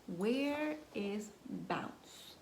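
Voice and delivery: drawn-out, soft "Where is Bounce?"; slow wondering question. Acted. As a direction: stretch it out, wondering aloud. Asks slowly in story.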